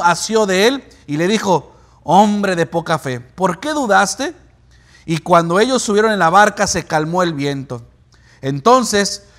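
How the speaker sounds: measured, projected Bible reading; preacher reading Scripture with deliberate emphasis. Acted. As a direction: read the passage aloud to the congregation. Reads Bible passage aloud to congregation.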